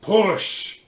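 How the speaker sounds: loud, high yell. Acted. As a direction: bellow the command. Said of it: "you hear a deep voice yell".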